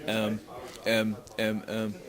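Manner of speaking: mock fumbling for words in an interview; imitated hesitant stalling. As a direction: drag out the ums as if lost for an answer. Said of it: "doing an interview and going".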